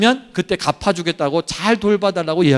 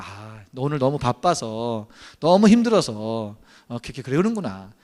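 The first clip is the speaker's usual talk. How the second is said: 측은한 이해; 8 semitones lower, 6 dB quieter than usual. Acted. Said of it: "불쌍히 여기는 마음을 갖는 거예요". (느리고 나직하게 헤아려 주는 말투)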